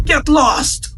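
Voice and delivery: high, sharp angry shout; furious dismissal. Acted. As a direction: throw him out with your voice. Master expels the disciple.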